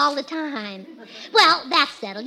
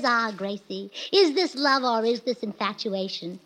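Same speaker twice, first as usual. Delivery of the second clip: imitating Charles Boyer; 5 semitones lower, 4 dB quieter than usual. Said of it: "a scene with Charles Boyer".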